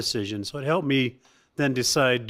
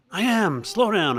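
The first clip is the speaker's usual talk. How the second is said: mock mom voice; 7 semitones higher, 4 dB louder, slower than usual. Mocking mom, pitch up.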